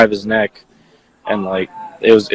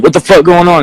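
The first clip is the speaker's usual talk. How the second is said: higher-pitched mock yell; retold yell; 7 semitones higher, 4 dB louder than usual. Witness showing how the victim yelled it, raised mock yell. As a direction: imitate a man's alarmed yell, not full volume. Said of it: "Yeah, he yelled it".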